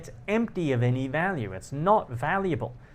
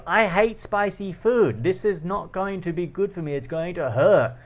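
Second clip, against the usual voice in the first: exasperated protest; 5 semitones higher than usual. Retold or imitated. Inner protest about spicy food.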